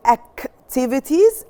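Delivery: ACTIVITIES with a firm K, "ak-tivities". Shown as a demonstration. Teacher models the word for pupils, C as K. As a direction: hit the C in "activities" as a K. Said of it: "ال C هنا بننطقها ك".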